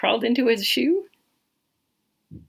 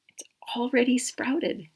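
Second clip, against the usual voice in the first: whispered reveal; 2 semitones higher, 6 dB quieter than usual. Acted. Hushed reveal to child.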